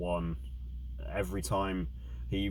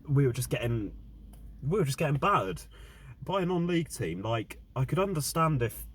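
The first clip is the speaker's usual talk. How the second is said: heated, raised fan rant; angry rant; 5 semitones higher than usual. Real, not acted. Fan ranting about team's loss.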